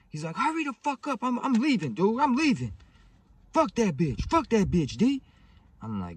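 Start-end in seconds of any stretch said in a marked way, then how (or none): 0.4-5.2 very high, loud mock panic; frantic high-pitched retold holler; imitated panicky shouting. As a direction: play a getaway driver yelling to hurry. Panicked driver shouting back, acted.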